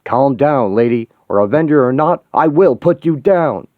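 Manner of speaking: stern threat. Acted. Cap threatens She-Hulk.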